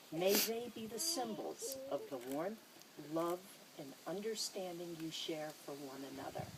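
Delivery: measured ceremonial reading; formal blessing. Acted. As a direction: bless the couple in an officiant's voice. Ceremonial blessing over the rings.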